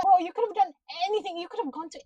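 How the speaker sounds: frustrated fast rant at the screen; exasperated rant at the character. Retold or imitated. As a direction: scold him in disbelief. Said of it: "I'm like".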